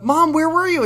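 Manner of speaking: very high imitated daughter voice; hammed-up upset teenager; mock teen complaint. Acting Amy complaining to her mother.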